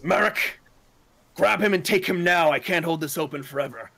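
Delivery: urgent command. Acted. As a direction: bark it out before the portal closes. Robed mage shouts through portal.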